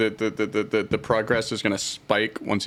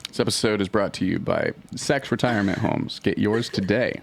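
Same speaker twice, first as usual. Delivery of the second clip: chipper 1950s ad. Pretend. Mock sponsor read.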